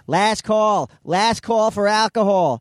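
high, drawn-out bartender call; last-call announcement. Retold or imitated. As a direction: call it out high over the bar. Bartender calling out last call, imitated.

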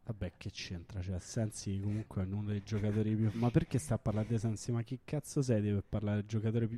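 put-on Roman accent, Inter fan rant; annoyed Roman accent. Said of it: "un commento imitando l'accento romano".

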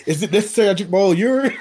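quick, loud, laughing movie quote. Retold or imitated. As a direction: fire off the movie line laughing. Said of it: "We say on dodgeball".

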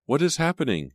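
lightly groggy questions, pitch climbing at the end; mildly dazed, rising questions. A narrator's reading. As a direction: come round confused after fainting. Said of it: "she asked groggily".

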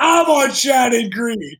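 retold shout. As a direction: belt out the street name in retold disbelief. Retold street-address surprise argument.

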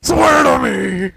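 drawn-out, high-strained shouted Batman growl. Acted. Co-host mimicking Batman interrogating someone, roaring DC voice. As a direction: roar it out slowly like Batman. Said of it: "talk in my D C voice".

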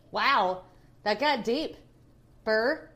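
talking through a tight face mask; drying face mask. Real, not acted. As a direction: stiff mask limits the mouth. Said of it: "my mask is tight".

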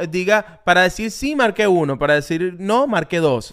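automated phone menu prompt. Retold or imitated. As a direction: read it like a robotic phone line. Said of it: "esa es la máquina que te diga". (voz de menú telefónico automático)

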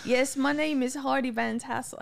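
failed Irish, coming out English; accidental English accent. Acted. Reading lyrics for the hosts, Irish slipping into English. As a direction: aim for Irish, land on English. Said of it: "I can't, that's English".

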